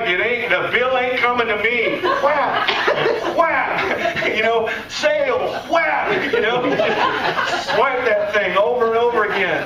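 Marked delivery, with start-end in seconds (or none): 0.0-2.0 giggly, carefree shopper; laughing carefree shopper. Retold or imitated. Daughter shopping on daddy's card, laughing carefree. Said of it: "You're like". 2.0-6.3 high, laughing card-swipe whaps; mock card swipe. Shopper swiping daddy's card, gleeful high whaps. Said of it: "You're like".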